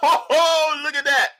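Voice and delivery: high, loud laugh-filled delight. Real, not acted. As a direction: laugh through it, charmed. Laughs while looking.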